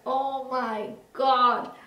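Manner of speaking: drawn-out, overwhelmed exclamation. Retold or imitated. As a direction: stretch each word slowly in awed disbelief. Acting out overwhelming feelings from book.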